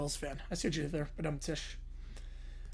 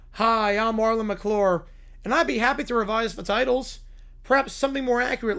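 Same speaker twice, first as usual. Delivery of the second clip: Troy McClure. Retold or imitated. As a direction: play the cheesy TV host, slowed right down. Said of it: "Troy McClure".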